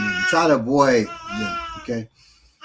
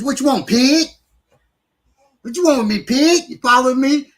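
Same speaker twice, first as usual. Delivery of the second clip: mock confrontation; 10 semitones higher, 7 dB louder than usual. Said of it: "Don't turn and say".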